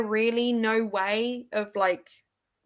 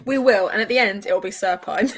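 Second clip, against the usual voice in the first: laughing; 3 dB louder than usual. Real, not acted. Laughing through reply.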